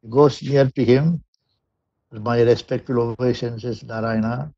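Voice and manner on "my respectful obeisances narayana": low, soft and slow, bowing before a god; quiet devoted slow greeting; hushed reverence. Acted. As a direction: murmur the greeting reverently, slowly. Bowing before Lord Narayana.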